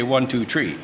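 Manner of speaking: mock Irish "three" said as "tree", no TH. Shown as a demonstration. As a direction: imitate an Irishman counting, with a hard T for TH. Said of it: "they can't say T H".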